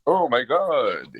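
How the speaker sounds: mock vampire count, drawing it out; Dracula. To his podcast friend, a slow mock Dracula voice. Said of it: "I can do it as Dracula".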